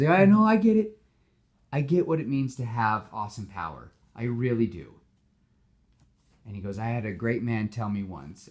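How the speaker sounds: lightly voiced, sincere hero speech; a heartfelt pep talk; earnest Spider-Man.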